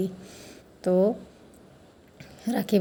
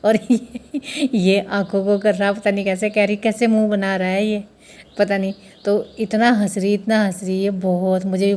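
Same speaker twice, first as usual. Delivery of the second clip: laughing while talking; 4 dB louder than usual. Real, not acted. Laughing at tilak mishap.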